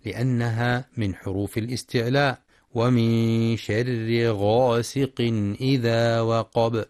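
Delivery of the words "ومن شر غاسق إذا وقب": slow tajweed chant; Quran recitation. Shown as a demonstration. Teacher reciting the verse, slow chant. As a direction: recite slowly and clearly.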